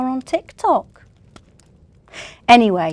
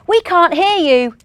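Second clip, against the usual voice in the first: shouting over music; 10 semitones higher, 8 dB louder than usual. Acted.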